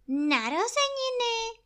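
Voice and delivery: high, astonished bear cry. Acted. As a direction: gasp it out in wonder. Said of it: "Řekl Pú úžasle".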